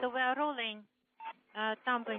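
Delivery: crackly radio transmission; breaking up space radio. Real, not acted. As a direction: voice cutting in and out over radio. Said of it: "Пробиваетесь".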